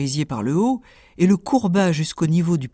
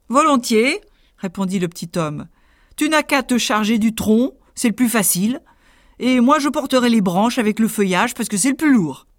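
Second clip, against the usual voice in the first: higher, sly helpful tailor; sly little tailor; 5 semitones higher than usual. Acted. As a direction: offer the trick sweetly. Tailor tricks the giant.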